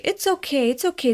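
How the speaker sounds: high-pitched hurried comfort; soothing a child. Retold or imitated. Adult panicking inside while consoling a crying boy, anxious soothing. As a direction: comfort a little one, voice lifted. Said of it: "I was panicking, and he was still crying".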